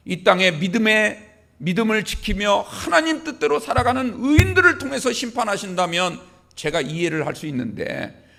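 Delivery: preacher acting out a grievance to God; Habakkuk's protest. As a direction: press the objection, swelling on key words. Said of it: "하나님 앞에 불평을 늘어놓기". (불평하는 하박국을 흉내 낸 말투)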